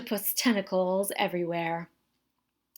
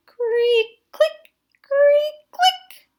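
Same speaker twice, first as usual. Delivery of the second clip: creaky sound effects; 5 dB louder, much slower than usual. A narrator's reading. Sound effects of straining tow truck.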